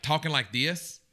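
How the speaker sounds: light country twang accent; demonstrating a country Southern accent. Shown as a demonstration. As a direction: put on a Louisiana-style country accent. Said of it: "the difference between country".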